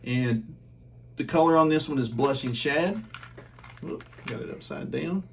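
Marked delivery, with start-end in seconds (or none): 3.8-5.2 hiccups. Real, not acted. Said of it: "I got the hiccups from drinking water".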